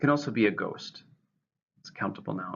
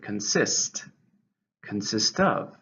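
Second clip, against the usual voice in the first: "consist" said con-SIST, stress on SIST; stress on second syllable; slower than usual. Shown as a demonstration. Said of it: "stresses on the second".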